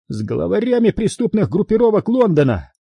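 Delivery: high-pitched, emphatic angry retort; angry growl. A narrator's reading. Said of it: "прорычал Харрисон". (сердитый рык)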